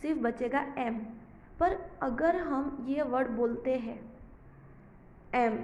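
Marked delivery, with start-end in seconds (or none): 5.3-5.6 a clear humming em; letter sound em. Shown as a demonstration. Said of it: "तो कौन सा sound होता है?".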